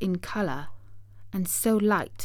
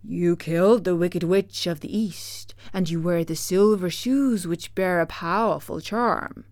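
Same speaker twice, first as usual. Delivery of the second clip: stern great head; 5 dB louder than usual. Acted.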